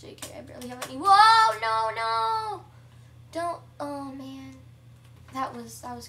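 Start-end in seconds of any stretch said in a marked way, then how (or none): 1.0-3.6 high, loud cry of alarm; loud startled protest; alarmed shout. Real, not acted. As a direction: yell out in sudden panic. Sudden danger in the game.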